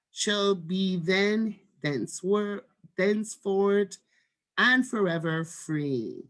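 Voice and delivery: measured proclamation with marked pauses; slow, stately read-aloud; formal script reading. Shown as a demonstration. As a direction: read it out deliberately, stretching the closing phrases.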